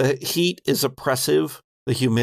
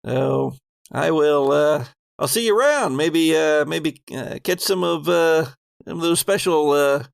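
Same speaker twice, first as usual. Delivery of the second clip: lightly voiced folksy working man; a hint of a shy, polite worker; folksy guard; 3 semitones higher, faster than usual. GM as Walter politely ending the chat, lightly voiced. GM voicing Walter taking leave.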